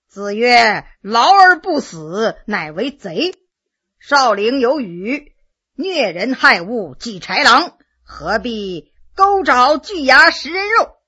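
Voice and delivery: slow, lofty classical recital; mock recitation. 老人慢吞吞地引经据典骂罗二爷. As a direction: lecture him like an old scholar. Old man quoting classics mockingly.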